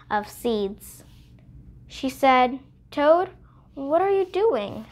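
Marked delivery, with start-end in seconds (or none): 2.9-4.9 character voice. Acted. Mouse voiced in read-aloud story.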